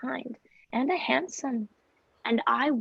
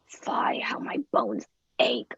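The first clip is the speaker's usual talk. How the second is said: weary groan; 11 semitones lower than usual. Acted. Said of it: "I am out of breath".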